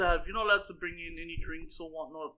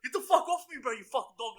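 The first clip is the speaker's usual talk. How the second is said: mock angry yell; 5 semitones higher than usual. Retold yelling at the farter.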